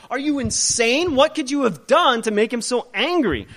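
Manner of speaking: sailors in a panic, voice shooting up; panicked sailors. Acted. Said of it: "So they're freaking out".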